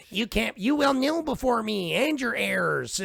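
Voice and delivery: booming arrogant alien overlord; Zod impression. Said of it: "He's like".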